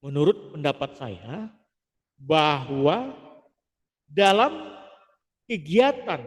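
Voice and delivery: slow, stretched words with clean pauses; calm paced speech, no fillers; measured pauses. Shown as a demonstration. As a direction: hold each phrase, then pause. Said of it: "berhenti, jeda, atau memperpanjang kalimat".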